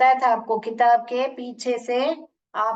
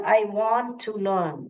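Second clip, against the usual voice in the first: slow model phrase; much slower than usual. Shown as a demonstration. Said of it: "ये sound".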